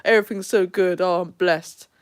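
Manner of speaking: mock blessed-and-happy act; fake church cheer. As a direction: imitate someone pretending all is wonderful. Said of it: "they smile and go".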